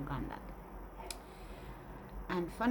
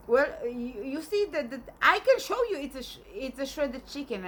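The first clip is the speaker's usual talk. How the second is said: grandmother voice; 5 semitones higher, 4 dB louder than usual. Retold or imitated. Grandmother insisting, voiced higher.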